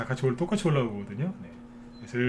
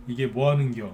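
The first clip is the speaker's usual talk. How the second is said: light Chungcheong dialect, ending 겨 instead of 거야; a Chungcheong local grumbling, unhurried. Shown as a demonstration. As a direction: say 겨 in an easygoing Chungcheong lilt. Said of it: "충청도 사투리는 이제 거야라고 안 끝나죠".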